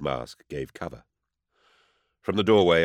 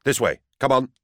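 higher, louder urgent call; urgent shout; 9 semitones higher, 6 dB louder than usual. Acted. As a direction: wave them on with a loud call. Calling the servants to follow.

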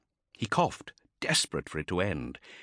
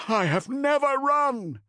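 very high, loud, slow yell; defiant yell; 3 dB louder than usual. Acted. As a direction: hurl the denial back. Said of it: "yelled Cestus".

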